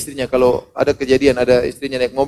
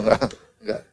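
ordinary delivery

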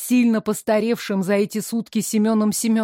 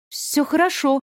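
loud; 6 semitones higher than usual. Acted. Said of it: "громко сказала я".

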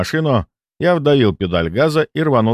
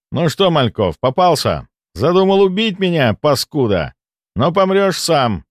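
through gritted teeth; 7 semitones higher than usual. A narrator's reading. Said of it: "процедил я сквозь зубы".

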